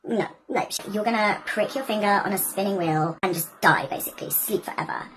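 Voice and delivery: sinking to a whispered threat; low menacing curse. Acted. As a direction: curse the baby, dropping to a whisper. Maleficent curses the baby.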